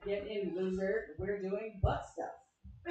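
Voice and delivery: slow, flat shirt slogan; deadpan reading. Retold or imitated. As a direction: read it out slowly, deadpan. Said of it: "and it said".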